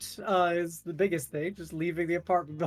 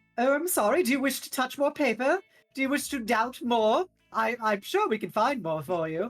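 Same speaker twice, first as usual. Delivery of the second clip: smug mocking character voice; 6 semitones higher than usual. Voicing Zenobia taunting a doubting companion: smug mocking voice as Zenobia. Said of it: "gonna fucking give him the smuggest look ever".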